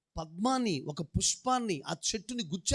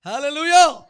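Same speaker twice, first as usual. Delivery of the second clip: high, loud shouted hallelujah; 8 semitones higher, 17 dB louder, slower than usual. Real, not acted. Preacher rousing the congregation, a high ringing hallelujah shout. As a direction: lift the whole room with it.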